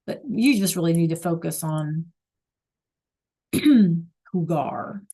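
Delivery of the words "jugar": whispering "jugar" as a hint. Real, not acted. Teacher whispering a hint to her class. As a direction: breathe "jugar" as a secret clue to the class.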